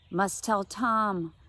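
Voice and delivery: put-on very slow, dazed old woman; halting grandma. Confused Grandma Jeannie slowly insists to Mom. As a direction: drag it out as if lost.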